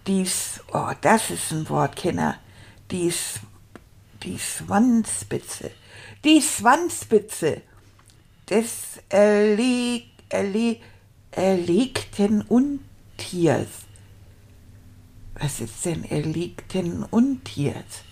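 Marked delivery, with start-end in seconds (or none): 2.9-13.7 slow, laboured reading with false starts; halting beginner reading. Acted. Beginner stuck on a hard phrase, reading haltingly. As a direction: pick through each hard word slowly. Sounding out words while reading.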